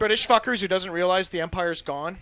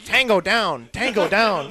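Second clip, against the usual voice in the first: soldier radio call; 5 dB louder, slower than usual. Pretend. Military radio call gag.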